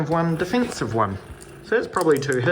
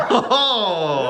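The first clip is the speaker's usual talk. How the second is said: witch cackle; 3 semitones higher, 4 dB louder than usual. Pretend. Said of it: "It really was a witch cackle".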